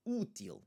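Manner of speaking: útil as OO-teel, first syllable stressed. Shown as a demonstration. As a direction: lean on the 'ú' of 'útil'. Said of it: "is the one that we are emphasizing".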